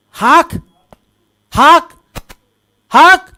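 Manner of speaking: hawking noise, rising with each go; imitated spitting out. Shown as a demonstration. Preacher showing God spitting out the lukewarm, imitated hawk. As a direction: demonstrate spitting from the mouth, short and forceful. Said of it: "उनके मुंह से".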